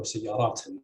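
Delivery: سياراتنا stressed on the third syllable. Shown as a demonstration. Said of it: "with stress on".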